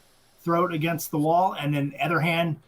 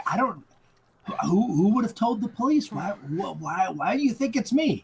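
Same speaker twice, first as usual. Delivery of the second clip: higher-pitched mock protest of innocence; playing innocent; 4 semitones higher than usual. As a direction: act baffled at being suspected. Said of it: "she's trying hard to be like".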